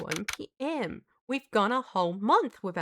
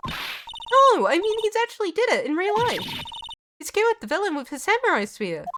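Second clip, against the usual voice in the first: much higher, urgent insisting; pitched-up, earnest protest; insistent excited; 9 semitones higher than usual. Acted. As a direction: convince him it really happened. Maya insisting it's real.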